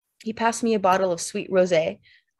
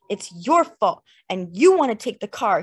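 wild accusation; 5 dB louder than usual. Acted. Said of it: "he said wildly".

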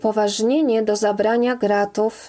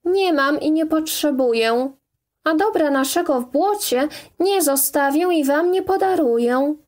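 higher, raised defiant voice; defiant raised protest; defiant shout; 6 semitones higher than usual. Acted. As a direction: stand your ground and shout back. Woman defies the forester.

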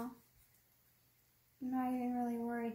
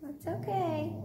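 soothing the dog; 2 semitones higher, 3 dB louder, slower than usual. Real, not acted. Calming her startled dog.

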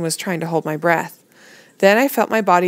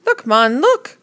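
loud, high scornful Caribbean call; 8 semitones higher, 5 dB louder, much slower than usual. A narrator's reading. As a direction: scoff and point it out. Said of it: "Timothy answered scornfully".

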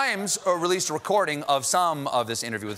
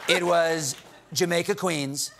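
lightly mimicked president telling humble origins; Donald Trump. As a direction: explain it in a mock presidential voice. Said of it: "Trump took a moment with the Times".

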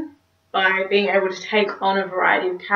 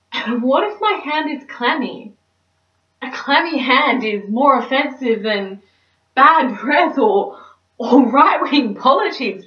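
neurotic dater's monologue, pitched higher; anxious comic fretting; 4 semitones higher, 4 dB louder than usual. Acted. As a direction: work yourself up over a tiny worry. Cynthia frets over holding hands.

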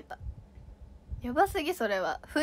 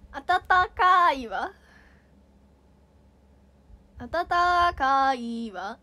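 Hakata dialect; 3 semitones higher, slower than usual. Shown as a demonstration. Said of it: "博多弁わかんない".

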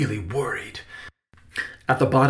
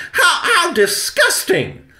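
high, loud, revolted shriek; sputtering, drawn-out outrage; stuttering disgust; 7 dB louder than usual. A narrator's reading. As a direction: stumble on the first word, then shriek. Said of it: "Victoria stuttered".

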